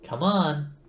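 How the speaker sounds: stern computer. A narrator's reading. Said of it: "said Eddie sternly".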